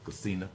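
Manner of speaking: "casino" ending in "uh" instead of O; drawled "casino" with the last O dropped; Southern drawl shortcut. Shown as a demonstration. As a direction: say "casino" as "caseena". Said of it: "They just can't get that O".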